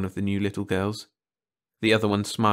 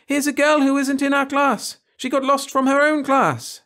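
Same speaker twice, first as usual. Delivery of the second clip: high, loud gleeful tattling; tattling child; 7 dB louder than usual. Acted. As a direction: tell the teacher with glee. Frances telling on Carolyn.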